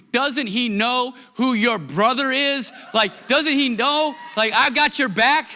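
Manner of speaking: put-on high, fired-up kid voice; ten-year-old son defending his sister at dinner, indignant; protective big brother. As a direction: puff up to defend your sister. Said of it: "he said".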